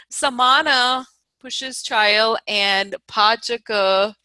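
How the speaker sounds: slow, thick Indian accent demo. Shown as a demonstration. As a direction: lean into a strong Indian accent. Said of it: "imagine if I was talking like that".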